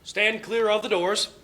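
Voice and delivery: slow, loud PA announcement; subway announcement. Acted. Subway announcer warning passengers, over the PA. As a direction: call it like a train speaker.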